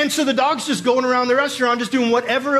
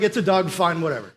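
grudging resignation; 4 semitones lower than usual. Acted. Food critic giving up on objecting to the dog, resigned. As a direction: let it sink low as you give up, lightly acted.

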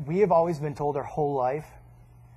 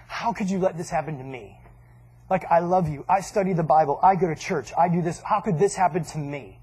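retold complaint to God. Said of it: "I remember praying to God".

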